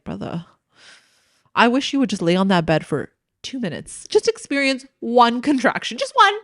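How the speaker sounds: mock exasperation, pitch jumping high on one; exasperated retort. Telling the boyfriend off, exasperated. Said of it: "I'm sitting there like".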